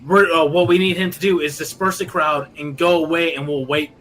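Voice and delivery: Kermit the Frog voice. Acted. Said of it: "a Kermit the Frog voice".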